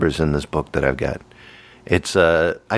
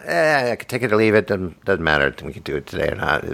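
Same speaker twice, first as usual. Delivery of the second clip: mock shrug, sinking lower; imitating friend's indifference; 3 semitones lower than usual. Imitating co-host being casual, drooping indifferent voice. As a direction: let it droop, mock take-it-or-leave-it. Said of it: "that's the way I see you".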